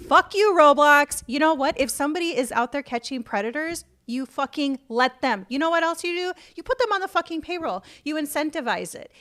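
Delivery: real anger, shouted at the company; angry rant. Real, not acted. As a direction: tear into Roblox, really fired up. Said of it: "I'm very passionate about this".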